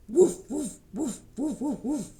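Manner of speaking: loud woofs, first pair loudest; playful doggy woofs; dog barks. Pretend. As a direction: woof like a friendly dog. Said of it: "A doggy says".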